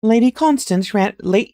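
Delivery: Lady Constance ran read in a posh English accent; starting the line still in a posh English accent. Shown as a demonstration. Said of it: "I don't need to do the accent anymore".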